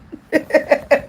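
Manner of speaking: high, far-off cackling laugh; burst of laughter. Real, not acted. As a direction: laugh out in disbelief. Reading a shocking caller comment.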